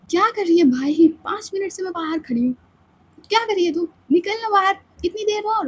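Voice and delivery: fed up with waiting; exasperated friend. Acted. Ananya scolding Samaira through the door, exasperated.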